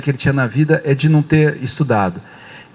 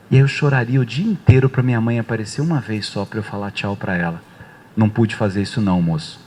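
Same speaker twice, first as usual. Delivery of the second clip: understated sorrow in a lowered voice; retold grief; 3 semitones lower than usual. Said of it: "começou a chorar". (pesar contido, em voz baixa)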